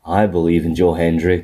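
low, ominous catchphrase; deep, brooding delivery of a slogan; Bray. Acted. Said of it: "Bray turns up and goes".

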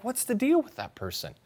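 mock disdain for someone who never says thanks; judgmental inner voice. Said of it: "You're like".

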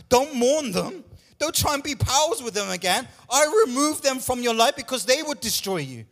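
high, loud urging of the congregation; fervent preaching. Acted. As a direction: push them not to look back. Preaching at full force.

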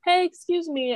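lightly sweetened polite request; friendly excuse me. Retold or imitated. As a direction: keep it nice, not mean. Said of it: "I was literally like".

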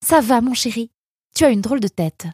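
high-pitched fussing mother's voice; concerned mother. A narrator's reading. Mother asking her darling son if he's okay, fussing.

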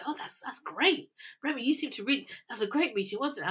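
a hint of an oblivious colleague praising; mock colleague. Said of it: "and people go".

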